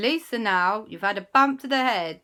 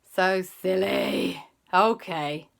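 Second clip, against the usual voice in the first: put-on bossy sensible kids; 8 dB louder, much slower than usual. Kids take charge sensibly.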